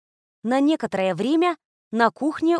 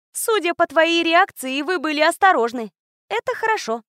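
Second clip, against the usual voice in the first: put-on girl's voice; 8 semitones higher, 3 dB louder than usual. A narrator's reading. Little girl's calm verdict.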